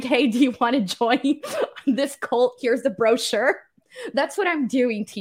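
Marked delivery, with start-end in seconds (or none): 0.0-3.6 door-to-door recruiter. Retold or imitated. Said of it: "when people go to your door and they're like".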